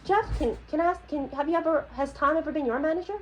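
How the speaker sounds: high, sharp rhetorical questioning; pointed challenge. Real, not acted. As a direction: corner him with pointed questions. Challenges coworker defending the boss.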